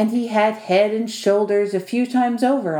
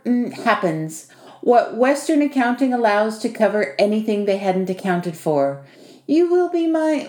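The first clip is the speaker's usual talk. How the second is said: lightly voiced host, lively, hesitating for the word; a hint of wry, businesslike host; Vasily; 3 semitones higher than usual. Host setting out terms to his pretend nephew, lightly wry.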